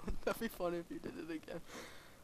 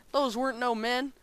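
ребёнок из сериала; 5 semitones higher, 6 dB louder than usual. Retold or imitated. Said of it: "and then he says".

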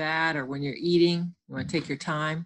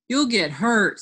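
raised, urgent warning; higher, louder storybook warning; 4 semitones higher, 5 dB louder than usual. Acted. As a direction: call out a caution to fighting friends. Child warning fighting friends.

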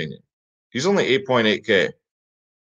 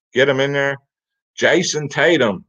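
impression of another streamer; 3 semitones higher than usual. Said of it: "DFS space impersonation".

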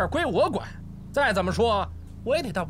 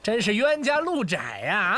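slow gloating; 2 semitones lower, slower than usual. Acted. Constable gloating.

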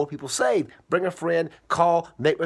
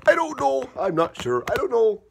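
indecisive; 8 semitones higher than usual. Acted. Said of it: "can't make his mind up".

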